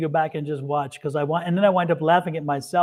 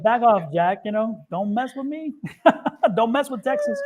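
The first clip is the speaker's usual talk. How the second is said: laughing mock warning; 5 semitones higher than usual. Retold mock warning, laughing between.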